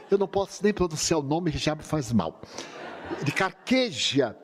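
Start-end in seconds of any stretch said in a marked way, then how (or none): 3.2-4.4 a slow, pained naming; slow disgust. Retold or imitated. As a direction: drag out the name as if it tastes bad. The worst tea, named with disgust.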